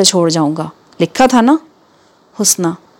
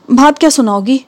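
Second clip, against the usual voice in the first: anxious; 5 semitones higher than usual. Acted. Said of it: "لہجے میں سخت گھبراہٹ لیے".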